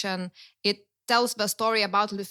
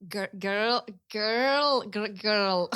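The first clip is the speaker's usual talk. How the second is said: demonstrated Lithuanian-accented English; much slower than usual. Shown as a demonstration. Showing how most Lithuanians say it, Lithuanian accent. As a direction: lean into a thick Lithuanian accent on "girl". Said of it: "our thing is very complicated".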